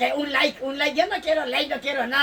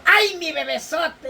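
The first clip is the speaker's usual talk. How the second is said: mother's delight; 2 semitones higher than usual. Acted. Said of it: "Dice así".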